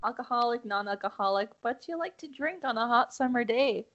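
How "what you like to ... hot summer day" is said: a light Canadian lilt on hot summer day; accidental Canadian lilt. Real, not acted. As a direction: say it with a slight Canadian accent. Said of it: "It sounded very Canadian".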